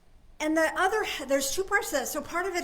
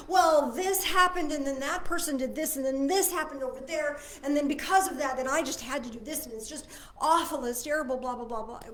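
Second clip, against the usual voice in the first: self-justifying story; 2 semitones higher, 4 dB louder than usual. Retold or imitated. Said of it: "we tell ourselves a story".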